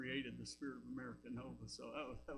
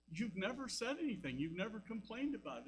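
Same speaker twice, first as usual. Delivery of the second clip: a raised, higher, lightly indignant wife voice; imitating his wife; 7 semitones higher than usual. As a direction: voice the surprised wife, pitched up.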